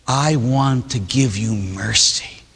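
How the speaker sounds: slow, tender offer of mercy; God the Father offering mercy, tender and slow; gentle fatherly voice. Acted. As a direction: speak as a loving father, slowly.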